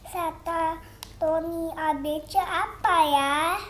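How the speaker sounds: slow, careful question to a phone; talking to voice assistant. Real, not acted. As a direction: spell it out slowly for the assistant. Child asks the assistant slowly. (bicara pelan ke asisten suara)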